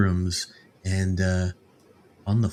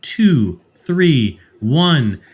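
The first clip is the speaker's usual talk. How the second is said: drawn-out, sing-song show opening; announcer intro; 2 semitones higher, much slower than usual. Acted. Host welcoming listeners back with the guest, drawn-out announcer delivery. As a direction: roll out the guest's name slowly like an announcer.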